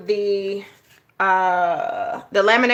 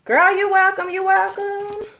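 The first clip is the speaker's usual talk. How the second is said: high, lilting thanks reply; sing-song you're welcome; 9 semitones higher than usual. Real, not acted. Answering viewer thanks, sing-song.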